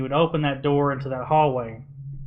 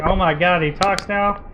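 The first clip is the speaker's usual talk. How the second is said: higher-pitched startled disbelief; mock-astonished question, pitched up; retold shock; 4 semitones higher than usual. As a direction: react as if just startled by it. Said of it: "and I was like".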